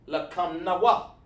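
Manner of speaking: "Lakam Nawa" joined as a phrase, still unhurried; measured pronunciation. Shown as a demonstration. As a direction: say "Lakam Nawa" deliberately, each syllable clear. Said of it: "that's how we pronounce it".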